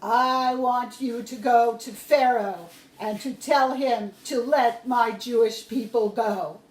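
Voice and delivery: a hint of God speaking from the bush; lightly voiced God. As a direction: announce it with authority. God gives his command.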